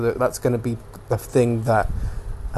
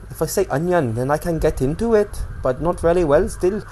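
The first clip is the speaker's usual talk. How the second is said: higher-pitched shaky attempt at Welsh; imperfect Welsh accent, pitched up; 4 semitones higher than usual. Shown as a demonstration. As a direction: lilt it in a put-on Welsh accent. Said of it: "It's like, uh, Wales".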